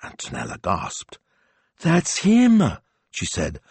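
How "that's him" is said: put-on high, loud excited young woman; excited girl. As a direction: blurt it out with excitement. Antonella recognising the voice.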